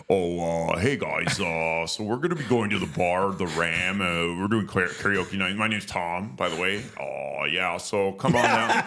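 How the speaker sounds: mock friendly invite from a chatty student; imitating Tom. Imitating Tom's voice in story.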